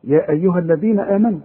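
يا أيها الذين آمنوا recited with a light ya; quick Quranic recital of يا أيها الذين آمنوا; Quran recitation. Shown as a demonstration. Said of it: "ياء القرآن يحيى".

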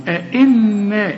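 أئنا with a held, nasal doubled nun; slow recited ghunna. Shown as a demonstration. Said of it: "اوعى تنسى الغنة".

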